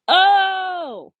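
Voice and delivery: a high, loud burst of realisation; loud surprised exclamation; sudden surprise. Acted. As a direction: blurt it out as it suddenly clicks. Will suddenly understands Nico's happiness.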